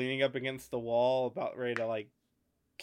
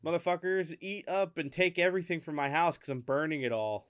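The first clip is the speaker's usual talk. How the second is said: retold defiant taunt; 3 semitones higher than usual. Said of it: "going like".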